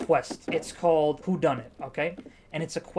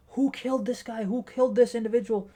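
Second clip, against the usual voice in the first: high, far-off mock panic from the party guests; panicked NPC guests; 7 semitones higher than usual. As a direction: play a nervous guest asking who did it, pitched up. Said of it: "trying to talk amongst each other, like".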